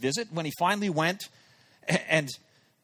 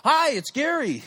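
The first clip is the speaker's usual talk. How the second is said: high, louder mock squeak; nervous squeak; 9 semitones higher, 6 dB louder than usual. Nervous caller finally gets words out, squeaky. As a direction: squeak it out like a tense teen pop singer. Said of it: "I squeak out, I sound like a pop singer".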